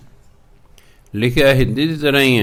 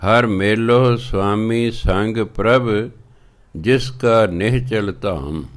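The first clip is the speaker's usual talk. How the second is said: measured, drawn-out scripture reading; slow devotional recitation of Gurbani; slower than usual. Acted. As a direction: read each word slowly and carefully. Recites Gurbani line slowly.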